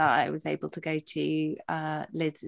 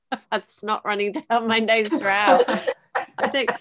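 real teary laughter; 5 semitones higher, 5 dB louder than usual. Real, not acted. Laughing at her own tears.

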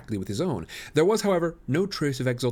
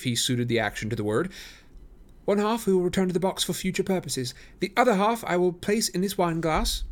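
high, assured detective; Holmes, demonstrating; 7 semitones higher than usual. A narrator's reading. Holmes to the detectives, high and assured. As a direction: explain the experiment with relish.

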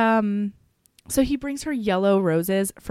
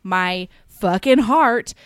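mildly bitter retold confession, slowing down; a little bitter; 4 dB louder than usual. Host retells her grudging love for him, mildly bitter. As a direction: imitate a touch of bitterness, drawn out. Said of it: "She's a little bitter".

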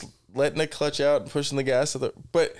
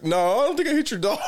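laughing denial; 9 semitones higher, faster than usual. Retold or imitated. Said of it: "He's like".

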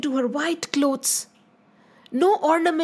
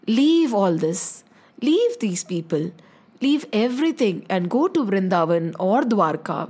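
lightly voiced wise elder, lower; lower, measured advice with pauses; gentle solemn counsel; 5 semitones lower than usual. Tulsi Baba tells Meera to leave, gently solemn.

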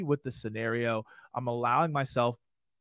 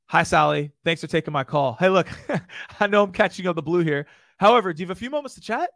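louder, fast, bright sales pitch with a chuckle; upbeat cold call opener; 3 semitones higher, 8 dB louder than usual. Shown as a demonstration. Salesman opening a cold call to Sally, fast and upbeat. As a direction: breeze through the opener fast and friendly. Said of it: "So I go".

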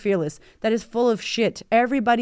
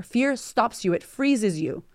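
ordinary talk

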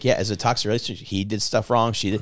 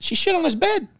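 outraged disbelief. Real, not acted. Outraged punchline.

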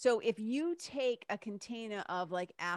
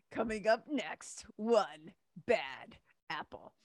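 slow dramatic trailer announcer; movie trailer voice; slower than usual. Pretend. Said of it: "it sounds like a movie trailer".

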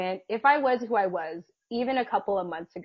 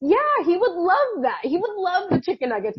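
voicing the dog; 10 semitones higher, 6 dB louder than usual. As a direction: answer sweetly as if you were the dog. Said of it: "answering for my dog".

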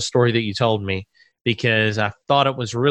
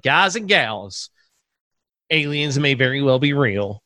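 preacher voice; slower than usual. Retold or imitated. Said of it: "I sounded like a Southern Baptist preacher".

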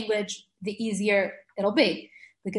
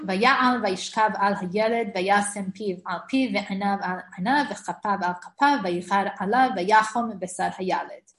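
verse reading. Shown as a demonstration. Teacher reading the pasuk aloud to students. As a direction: read each phrase deliberately. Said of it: "So we'll read the pasuk".

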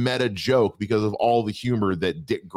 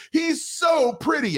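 hammed-up swooning falsetto; starstruck swoon; slower than usual. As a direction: squeal it like a dazzled fan. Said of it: "he's like".

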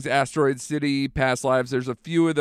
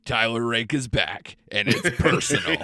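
movie trailer voice. Retold or imitated. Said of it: "I had a movie trailer guy voice in my head".

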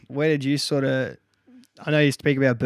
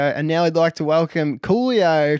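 announcer voice; 4 semitones higher, 5 dB louder, slower than usual. Retold or imitated. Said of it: "we'd hear him go".

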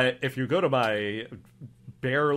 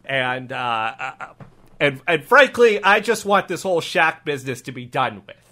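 put-on subdued accented officer; tired, halting improv cop; weary cop; 5 dB louder than usual. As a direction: admit it as a fed-up local cop.

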